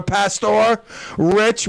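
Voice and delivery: "Pastor" with a full OR, then "Rich" drawn out; "Pastor Rich" stretched out, with a clear -or; careful spelled pronunciation. Shown as a demonstration. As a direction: slowly say "Pastor Rich", sounding PASS-tor. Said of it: "P A S T O R".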